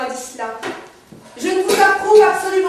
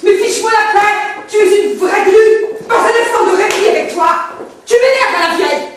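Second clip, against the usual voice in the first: raised, exasperated voice; cross outburst; 2 semitones higher than usual. Acted. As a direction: snap at someone who is pestering you. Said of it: "Mais pourquoi tu cries". (cris d'agacement)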